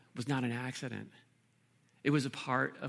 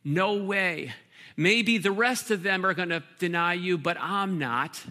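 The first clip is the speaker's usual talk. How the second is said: louder, indignant Peter, slowing at "but I'm not"; proud protest; 3 semitones higher, 7 dB louder than usual. Acted. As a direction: brush off the others with proud bluster. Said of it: "And so Peter protests".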